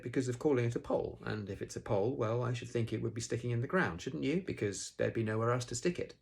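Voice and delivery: lightly voiced Rabbit. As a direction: lightly act a know-all explaining.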